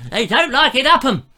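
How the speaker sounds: high, loud excited shout; Dad's Army voice. Retold or imitated. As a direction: call it out high. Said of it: "just getting into the mood".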